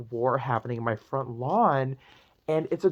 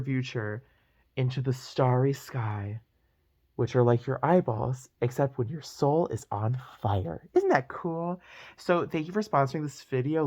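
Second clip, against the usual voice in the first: breathless gossipy storytime. Acted. Mock sponsor pitch.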